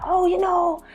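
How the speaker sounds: mock mum, high and sing-song; imitating mum. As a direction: coo like a doting mum. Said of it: "You know what mums do".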